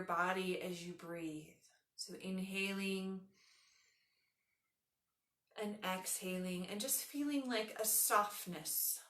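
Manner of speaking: unhurried yoga nidra guidance with long pauses; guided meditation. Acted. Leads a guided relaxation.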